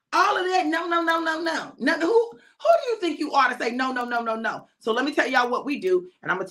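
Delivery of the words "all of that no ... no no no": mock scolding, starting high and falling away; lightly acted indignation at a child saying no; exasperated caregiver. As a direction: take a defiant toddler to task, half in earnest. Acted exasperated adult answering toddler.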